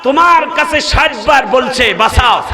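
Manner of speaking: preacher quoting a divine call. Retold or imitated. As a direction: call the name high, then ease off. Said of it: "আল্লাহ ডাক দিয়ে বলে".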